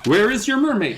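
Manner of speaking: put-on high, overblown childish demand; mock childlike storytelling. Zoo people asking for the mermaid, mock childlike. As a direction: demand it like a kid playing make-believe. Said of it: "kind of feels like how a child would describe this".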